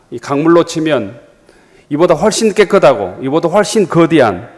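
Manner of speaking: mildly worked-up retold protest; preacher voicing an indignant complaint, key phrases pushed slightly; retold indignant huffing. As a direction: act out a general's offended rant, with some restraint. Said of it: "이렇게 씩씩거리면서".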